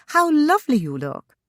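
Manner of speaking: high-pitched smiling compliment. A narrator's reading. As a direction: pay the compliment with a lifted, smiling voice. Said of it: "Shanna smiled".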